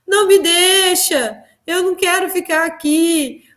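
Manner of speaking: high, tearful plea, held back a little; a desperate plea to be taken along; pleading cry. Retold or imitated. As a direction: beg Jesus not to leave you. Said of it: "E eu gritava, eu chorava, eu falava".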